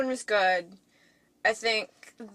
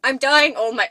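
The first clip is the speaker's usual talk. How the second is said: lightly put-on British accent, pitched up; attempted British accent; 6 dB louder than usual. Shown as a demonstration. Trying Tom Holland's British accent for the co-host, badly attempted British accent. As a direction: have a shaky go at a British accent. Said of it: "try and do a British ac".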